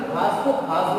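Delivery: खास with final s; corrected pronunciation. Shown as a demonstration. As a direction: end खास cleanly on s. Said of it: "बोलना तो सीख लिया". (खास के अंत में "स")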